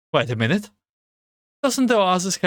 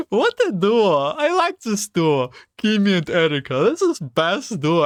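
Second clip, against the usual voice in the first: excited; 6 semitones higher than usual. Real, not acted. Gushing over the pairing.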